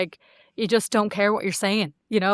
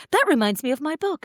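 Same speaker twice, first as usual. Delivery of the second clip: mocking self-promoter; 7 semitones higher than usual.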